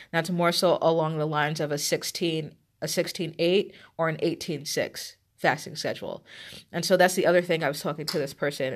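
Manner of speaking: blocked nose, congested voice; stuffy nose. Real, not acted. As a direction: talk through a stuffy cold. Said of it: "I'm sorry that I sound all stuffy".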